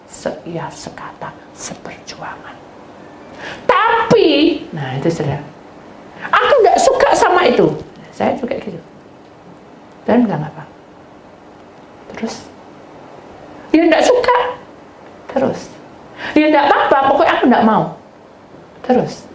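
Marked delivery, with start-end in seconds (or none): 0.1-2.6 very slow unvoiced whisper. Preacher urging unity in a slow whisper. 6.3-7.7 high, loud sulky refusal; stubborn believer. Acted. Preacher acting a stubborn believer, high and loud. 13.8-17.8 high, loud sulky refusal; stubborn believer. Acted. Preacher acting a stubborn believer, high and loud.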